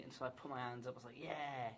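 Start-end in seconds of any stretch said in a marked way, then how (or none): 1.2-1.7 drawn-out mock cheer; piss-taking cheer. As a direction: cheer along, only half in earnest. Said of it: "just kind of taking the piss".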